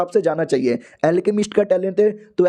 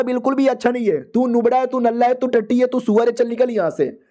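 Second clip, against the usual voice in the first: higher-pitched rattled-off insults; mildly angry, higher voice for a jeering bully; mock scolding; 5 semitones higher than usual. Bully insults the hero and sends him away, mock scolding.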